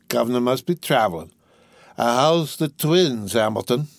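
put-on drunk. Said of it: "I'm drunk".

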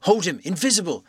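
high, loud excited shouts; excited cries. A narrator's reading. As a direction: cry out in excitement. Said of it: "excited cries of".

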